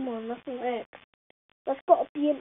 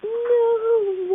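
sharp, loud, higher no at the pins; frustrated no; 8 semitones higher, 7 dB louder than usual. Real, not acted. Player yelling at a stubborn bowling pin, loud and high. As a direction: blurt it out as the pin stays up.

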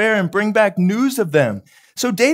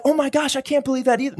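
a higher, hushed gasp of disbelief; mock shock; 5 semitones higher, 3 dB quieter, faster than usual. Preacher mocking believers who panic at news, mock gasp. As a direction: ham up the shocked gossip a little. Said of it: "It's not like".

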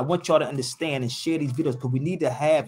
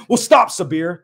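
mocking quote; 4 semitones higher, 9 dB louder than usual. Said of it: "This is what Negroes will say".

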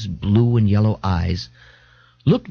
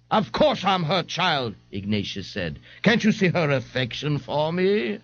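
Ignatius smug; 5 semitones higher, 3 dB quieter than usual. Acted. Ignatius replies.

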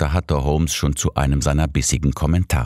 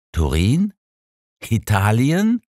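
aghast; 8 semitones higher, slower than usual. A narrator's reading. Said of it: "fragte ich fassungslos".

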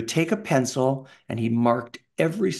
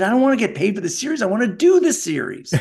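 eager protest; 9 semitones higher, 5 dB louder, faster than usual. Retold or imitated. Young actor pleading with agent.

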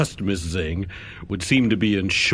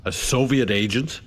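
scoffing, disbelieving interrogator; incredulous questioning. Acted. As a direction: challenge the testimony with a short scoffing laugh. Interrogator doubts the witness's testimony.

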